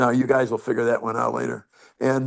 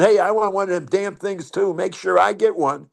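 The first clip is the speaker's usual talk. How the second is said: higher, pleading hitter's voice; Greasy Joe begging; 6 semitones higher than usual. Retold or imitated. Greasy Joe pleading with the pitcher, higher mock yell. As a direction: wheedle like a pushy teammate. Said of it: "he yells at me".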